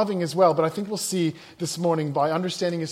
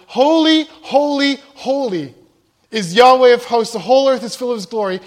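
powerful, ringing shout, much higher and louder; full-voiced proclamation, holy holy holy; loud cry; 5 semitones higher, 9 dB louder than usual. Shown as a demonstration. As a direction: cry it out like the seraphim shaking the doorposts. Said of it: "That's how loud it was".

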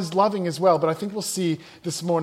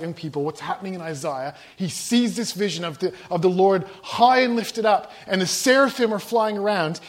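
ordinary talk, nothing marked

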